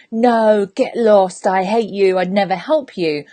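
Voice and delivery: mildly harsh, emphatic rebuff; mean refusal. Pretend. Coach acting out a mean reply to a friend, mean. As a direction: snap out a mock-mean no. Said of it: "'cause I was mean".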